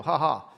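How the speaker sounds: spoken "ha ha"; mock laugh. Husband scoring a point on his wife, mock laugh. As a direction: tease with a put-on laugh.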